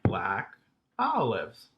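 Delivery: "black olives" slowly, one long beat then two; "black olives" in measured rhythm; rhythmic demonstration. Shown as a demonstration. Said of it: "sound the same when you say them".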